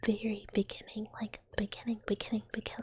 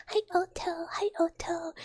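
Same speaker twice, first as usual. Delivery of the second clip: cheerful greeting; 5 semitones higher, 3 dB louder than usual. Real, not acted. Greeting a viewer.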